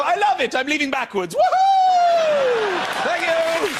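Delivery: high, loud whooping delight; overjoyed customer. Retold or imitated. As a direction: burst out cheering as you leave.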